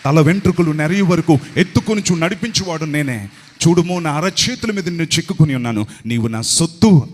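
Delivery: voice of Jesus. Retold or imitated. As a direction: speak as Jesus embracing his son, firm and tender. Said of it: "యేసుక్రీస్తు ప్రభు నన్ను ఇలా కౌగిలించుకొని". (ప్రభువు స్వరంలో గంభీరంగా)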